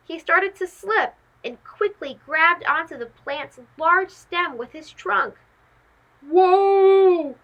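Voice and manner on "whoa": sudden yelp as he slips; startled scream. Acted. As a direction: yelp in alarm, losing footing. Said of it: "Simon screamed".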